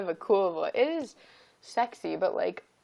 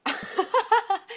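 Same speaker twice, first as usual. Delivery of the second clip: high laugh; 13 semitones higher than usual. Real, not acted. Laughs at name reading.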